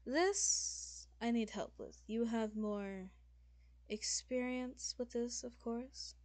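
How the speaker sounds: slow, deliberate formal request; measured demon lord. Acted. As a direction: ask for help with careful courtesy. Game master voices measured lord.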